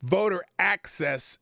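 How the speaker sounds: "voter access" said slowly with ironic weight, as if in quotation marks; scare quotes. Real, not acted. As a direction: drawl "voter access" sarcastically. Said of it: "quote ... end quote".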